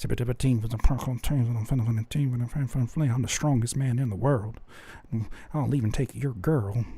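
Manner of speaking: low, soft, unsure boasting; a hint of a timid rapper faking confidence; timid braggart. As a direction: brag big but mumble it without conviction. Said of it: "if you're sitting here sounding timid".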